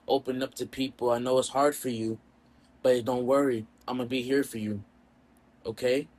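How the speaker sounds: lightly acted, softened comforting; gentle reassurance. Pomni comforts Jax after saving him, mildly tender reassurance. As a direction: quietly reassure a friend, a touch tender. Retold comforting of a distressed friend.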